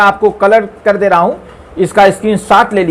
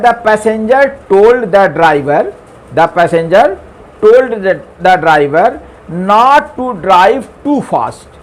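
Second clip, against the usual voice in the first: slow dictation; much slower than usual. Shown as a demonstration. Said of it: "देखिए, ये यहाँ पे क्या है".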